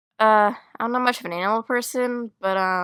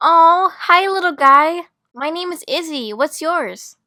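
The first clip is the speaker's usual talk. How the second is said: high-pitched pet-talk; cooing greeting; 6 semitones higher, 4 dB louder than usual. Acted. Student meeting her little Majescral, delighted high cooing. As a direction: coo up high to a tiny creature.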